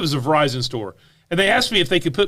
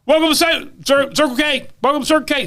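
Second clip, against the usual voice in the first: higher, sing-song clerk greeting; light mock shout of a store greeting; 9 semitones higher than usual. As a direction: call it out like a bored clerk. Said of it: "they're screaming from across the room".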